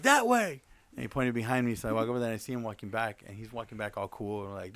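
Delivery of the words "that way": much higher pointing voice; imitating Sammy. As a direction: point it out, helpful. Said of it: "He's like".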